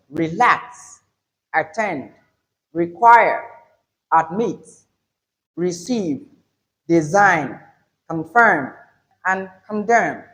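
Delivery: relax, attend, require with the weight on the second syllable; stress on second syllable. Shown as a demonstration. Teacher listing verbs for learners, second syllable stressed. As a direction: say each verb, like admit and confirm, weak first syllable, strong second. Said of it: "for verbs, we have what?".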